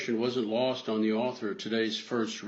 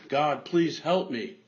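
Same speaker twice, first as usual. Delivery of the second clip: mock scream; 4 semitones higher than usual. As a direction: beg God harder, stretching it out. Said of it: "He screamed again".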